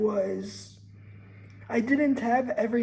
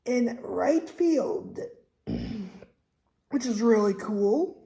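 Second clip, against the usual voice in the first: put-on joking Texas accent about the ballpark. Vlogger slipping into a mock Texas accent. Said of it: "talking that accent".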